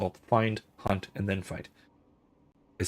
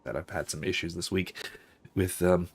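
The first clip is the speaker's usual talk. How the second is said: hoarse voice; 2 semitones lower than usual. Real, not acted. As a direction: talk through a worn-out, hoarse throat. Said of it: "barely passable voice this evening".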